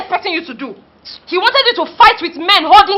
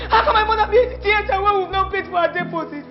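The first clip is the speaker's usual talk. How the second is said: sobbing accusation; 3 semitones higher than usual. Acted. Son crying, shouting at nurse.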